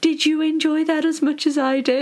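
accidental hint of an American accent; slightly American accent. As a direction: retell it with a slight American twang. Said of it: "I did a slightly American accent".

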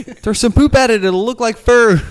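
high, loud monkey chatter; high ape voice. Retold or imitated. Ape voice continued.

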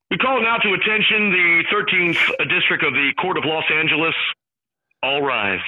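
a hint of a stadium PA booming a court summons; courtroom announcer. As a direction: announce it like a court bailiff opening session. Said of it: "Nobody does impressions better than him".

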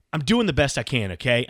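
mock a wife's defensive outburst; imitated defensive wife. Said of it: "her line to me is".

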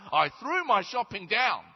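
high, loud proud repeat. Acted. The man repeats his boast to Peter, loud. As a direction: say it again with pride.

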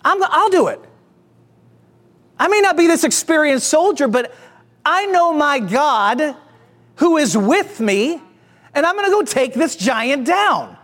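touch of disbelief, stretched key phrases; incredulous. Retold or imitated. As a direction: act out a young man who can't believe nobody will step up. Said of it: "incredulously, is like".

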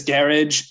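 garage as "GARR-idge", stressed up front; British-style garage. Retold or imitated. Quoting Welsh dinner guest, garage as "GARR-idge". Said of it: "say with a British accent".

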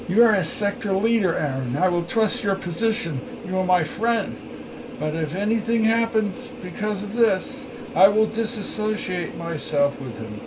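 high, quiet voice of a wary ally; stern Belnor. A narrator's reading. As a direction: warn a friend in a high, hushed voice.

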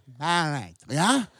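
buried said the English way, "berry-d"; buried like berry, to fit in; English accent. Shown as a demonstration. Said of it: "fit into your culture and say".

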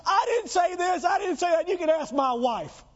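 hammed-up plea of innocence; indignant self-defence. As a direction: protest your innocence, voice cracking. Imagined self-defence before mob.

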